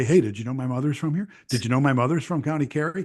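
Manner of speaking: quick, rattled-off questions, each rising at the end; mock pestering. American stopping strangers on the street, mock pestering. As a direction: fire it at a passer-by in a rush.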